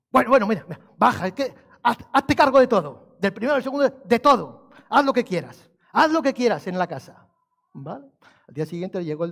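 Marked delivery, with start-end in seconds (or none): 0.1-8.1 higher, louder, giving in with a throw-up of the hands; a man fed up, handing over the whole house; exasperated rich man. Acted. Rich man telling Jesus to take all the house, exasperated and louder.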